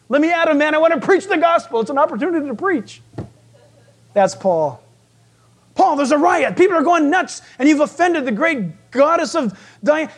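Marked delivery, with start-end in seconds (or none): 0.1-3.0 higher-pitched, raring-to-go acted plea; eager Paul. Preacher voices an apostle begging to go preach, eager. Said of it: "You know what Paul was saying?". 5.7-10.1 higher-pitched mock panic; acted alarmed warning. Preacher plays disciples warning an apostle of a riot, alarmed.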